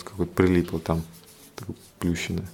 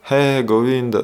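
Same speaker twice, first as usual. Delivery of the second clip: higher, mildly raised calling out; imitated cry for help; 5 semitones higher, 5 dB louder than usual. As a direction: call on God as if crying out, held back. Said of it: "Там она ярко кричала". (изображая громкий призыв о помощи)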